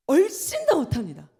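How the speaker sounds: loud, punched preacher's declaration; preaching emphasis. Real, not acted. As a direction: hit it hard from the pulpit. Preacher stresses Satan cannot approach. (설교하듯 크게 힘주어)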